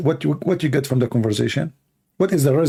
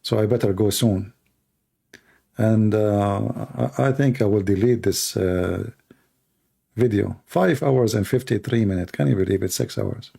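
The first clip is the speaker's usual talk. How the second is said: voice dying; 3 semitones lower than usual. Real, not acted. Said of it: "when my voice is dying".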